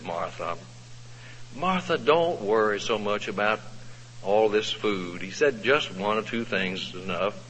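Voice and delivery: soft, calm reassurance; soothing. Retold or imitated. Jesus soothing anxious Martha, soft and calm. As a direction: gently soothe a fretting friend. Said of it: "listen to Jesus soothe Martha".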